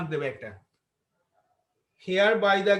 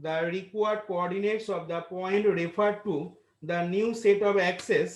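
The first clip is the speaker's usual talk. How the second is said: dictating; much slower than usual. Acted. Dictating answer to class.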